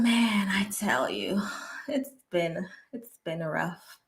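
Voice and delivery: whispered, tired confession; hushed weary aside. Real, not acted. Vlogger confiding to viewers about work, whispered and weary. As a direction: let it drop to a tired whisper.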